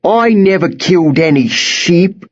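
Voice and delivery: high, pleading denial; crying out in protest. A narrator's reading. Worm held by the collar, protesting in a cry. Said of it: "cried Worm".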